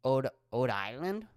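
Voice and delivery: "Ode Island" with the initial R left off, questioning; R dropped. Shown as a demonstration. Working out the local way to say it, R dropped from "Ode Island". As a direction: try out "Ode Island" without an R. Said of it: "you wouldn't pronounce the R".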